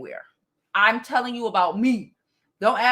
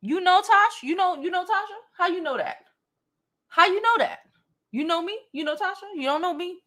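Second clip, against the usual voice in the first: mock disbelief; 5 semitones higher than usual. Mocking an incredulous commenter.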